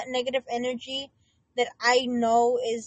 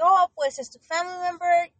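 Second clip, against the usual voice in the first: a mocking relative dismissing her, higher and louder; 5 semitones higher, 4 dB louder than usual. Mocking relatives who defend the abuser, higher and louder. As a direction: mimic the family brushing it off. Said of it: "It's like".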